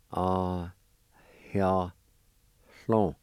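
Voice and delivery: each Cherokee syllable of "Ah, hia, hlon" said separately, with a pause after each. Shown as a demonstration. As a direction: sound out "Ah, hia, hlon" one syllable at a time. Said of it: "It's pronounced like this".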